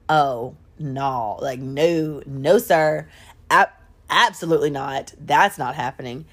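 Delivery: low, deliberate no; imitated firm refusal. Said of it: "she's like".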